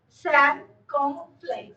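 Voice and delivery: "Circumflex" drawn out very slowly; slow repeat. Shown as a demonstration. Teacher repeats the accent's name for students, slowly.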